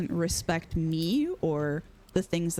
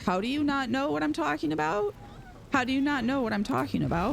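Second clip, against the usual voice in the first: incredulous question, pitch climbing higher; flabbergasted; 5 semitones higher than usual. Real, not acted. Telling dad he should already know, flabbergasted. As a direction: ask it in baffled disbelief. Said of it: "I'm a little flabbergasted".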